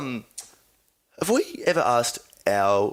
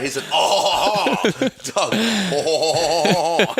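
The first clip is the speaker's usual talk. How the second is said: long, higher, drawn-out "ohhh"; exaggerated mock "oh"; 4 semitones higher, much slower than usual. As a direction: ham up the vowel, half laughing. Hamming up the "oh" sound.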